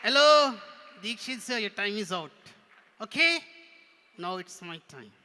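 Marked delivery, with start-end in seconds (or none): 0.0-3.4 higher, louder puppet voice; cheeky puppet. Pretend. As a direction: butt in as a pushy ventriloquist's puppet. Ventriloquist's figure interrupts the host.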